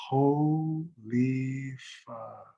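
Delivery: drawn-out, slow, laughing disbelief; stunned disbelief. Retold or imitated. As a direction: let it stretch out in amazed half-laughter. Stunned at the cheap house deal.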